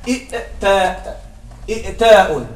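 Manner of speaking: إئتاء with both hamzas, said slowly; heavy original form. Shown as a demonstration. Teacher showing why the form is hard on the tongue. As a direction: drag out إئتاء to show it is hard to say. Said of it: "ثقيل على اللسان".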